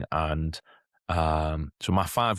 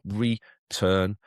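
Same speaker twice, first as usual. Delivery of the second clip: slow syllable demo. Shown as a demonstration. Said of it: "explore the syllables".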